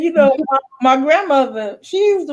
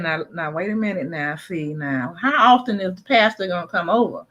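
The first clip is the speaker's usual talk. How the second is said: grandfather's warning; 3 dB quieter than usual. Retold or imitated. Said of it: "he said".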